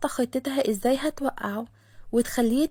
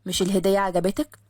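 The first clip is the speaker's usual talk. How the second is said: lower, curt impatient man; Khaled annoyed; 5 semitones lower than usual. Acted. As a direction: cut it short, lower. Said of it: "نفخ خالد بضيق". (خالد متضايق بصوت أوطى)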